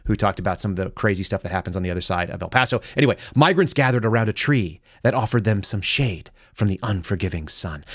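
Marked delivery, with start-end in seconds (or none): 3.3-7.8 mock-dramatic article reading. Shown as a demonstration. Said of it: "I have to do a dramatic voice".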